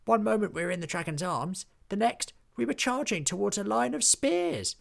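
excited exclaim. A narrator's reading. Willy tells his friends, fast and excited. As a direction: blurt it out breathless with excitement. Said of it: "exclaimed Willy".

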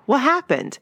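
high mock yell of bewilderment; Ricky flabbergasted. Podcaster quoting Ricky as the credits roll, flabbergasted mock yell. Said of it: "Ricky, flabbergasted, yells".

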